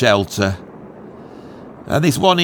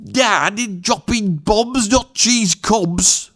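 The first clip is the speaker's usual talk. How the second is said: slow, high Black Country punchline; Black Country accent; 7 semitones higher, much slower than usual. Shown as a demonstration. Delivering the air raid punchline, slow Black Country accent. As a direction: stretch it out in broad Black Country. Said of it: "he said it in a black country accent".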